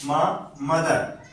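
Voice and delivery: म then मदर, slowly with a clear "m"; slow letter demo. Shown as a demonstration. Teacher modelling the "m" sound in मदर slowly. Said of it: "एम का जो उच्चारण होता है हिंदी में म".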